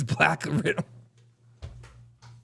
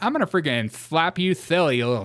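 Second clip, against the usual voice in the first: mock threat; 2 semitones higher than usual.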